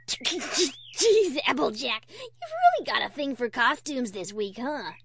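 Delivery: loud teasing through laughter; laughing hysterically. Acted. Rainbow Dash ribbing Applejack's wolf costume, laughing. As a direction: burst out mocking, barely holding in giggles. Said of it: "Dash was already laughing hysterically".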